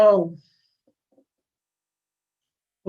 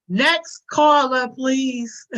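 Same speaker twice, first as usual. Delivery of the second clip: drawn-out, louder "Next caller" like a call-in host; mock radio host; 2 semitones higher, 5 dB louder, much slower than usual. Streamer playing a radio host, dismissing chat, drawn out. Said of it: "I'm hanging up this line".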